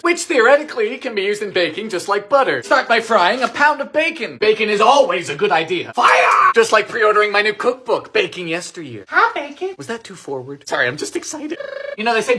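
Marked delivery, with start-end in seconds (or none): 5.9-6.5 alarmed shout. Real, not acted. Bacon pan flares up.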